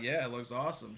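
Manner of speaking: deadpan, muted agreement; monotone. Retold or imitated. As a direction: answer softly with barely any lift. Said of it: "this voice that sounds very monotone".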